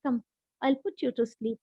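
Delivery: put-on Mama Bear soothes Baby Bear, softly; soothing Mama Bear. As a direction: hush the cub tenderly. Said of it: "Mama Bear said".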